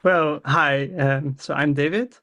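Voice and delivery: normal talking voice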